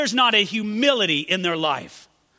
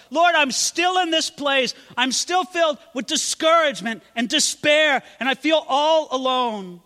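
despairing Elijah; 7 semitones higher, 5 dB louder than usual. Acted. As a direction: cry out in lonely despair.

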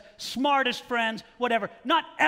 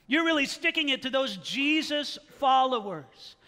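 mocking smugness; 5 semitones higher than usual. Preacher mimicking Bible critics, mild mock gloat. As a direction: lightly mimic smug critics cheering. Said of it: "something that people thought".

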